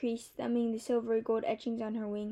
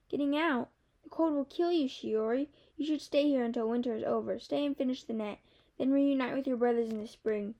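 lightly raised little bird voice; a hint of a small chirpy bird teasing; gently lifted bird voice, playful; Kiki the bird; 3 semitones higher than usual.

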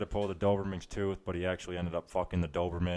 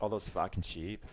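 slow, softer Irish lilt; put-on Irish accent; 6 dB quieter, slower than usual. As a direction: repeat it slowly in an Irish brogue. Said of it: "did you say fucking sheep".

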